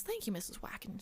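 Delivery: soft unvoiced whisper, polite; whispered thanks. Frog whispering thanks to the bank teller, hushed. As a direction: breathe it like a shy frog.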